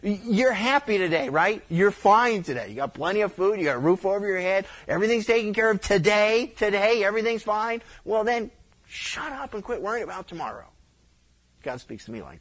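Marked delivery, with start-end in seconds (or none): 0.0-10.7 a touch of a loud, scolding God, pitched higher; God chiding a worrier to quit fretting. Retold or imitated. Preacher voicing God scolding him, half-shouted. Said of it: "And God's saying".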